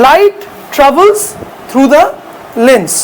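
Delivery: very slow, drawn-out English phrase; teacher dictating to students; slow dictation. Shown as a demonstration. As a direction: dictate it slowly for note-taking. Teacher dictating a key point.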